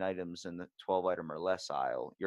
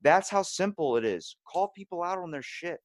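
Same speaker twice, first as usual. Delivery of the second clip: higher, louder emphatic punchline; telling the rude stranger how simple it is; emphatic retort; 7 semitones higher, 5 dB louder than usual. Retold or imitated. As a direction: hammer the point home, pitched up. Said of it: "I'm like".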